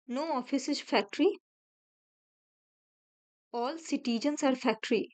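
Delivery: each word drawn out slowly; slow teacher dictation of a statement. Shown as a demonstration. Rereads statements while drawing.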